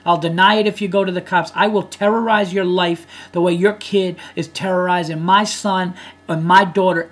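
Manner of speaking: acted threat. Imagined angry parent to bully's father on doorstep, threatening. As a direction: lay down a mock threat, forcefully.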